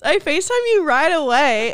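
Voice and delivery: tearful excitement carried over from the first try; emotional, near tears. Real, not acted. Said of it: "No, I'm gonna start crying".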